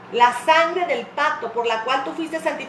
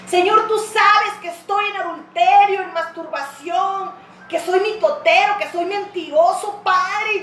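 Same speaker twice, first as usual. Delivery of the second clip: high, pleading confession, building to a long loud cry; desperate prayer; 5 semitones higher, 3 dB louder than usual. Acted. Preacher models a sinner's private confession to God, desperate prayer. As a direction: plead with God, climbing to a drawn-out call for help.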